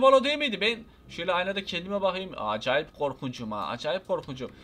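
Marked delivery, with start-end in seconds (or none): 2.4-4.5 mock spooky. Admiring scary costume in mirror.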